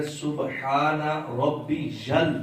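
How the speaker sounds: slow, measured "سبحان ربی جل" with يا joined to لام; teacher sounding out each syllable slowly; careful recitation demo. Shown as a demonstration. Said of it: "یہ یا کی آواز نکال کر اس لام کے ساتھ ملانا ہے".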